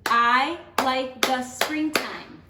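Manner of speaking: slow, each syllable spaced for a clap; teacher beating out syllables; clapped out syllable by syllable. Shown as a demonstration. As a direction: clap it out one beat at a time. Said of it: "let's clap this out".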